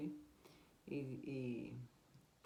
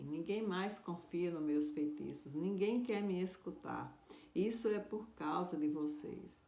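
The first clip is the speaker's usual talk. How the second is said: higher, louder accusing rant; angry sorcerer; 3 semitones higher, 3 dB louder than usual. Acted. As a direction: blame the missionaries with rising anger. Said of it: "aquele homem ficou muito bravo". (feiticeiro furioso, mais agudo e mais alto)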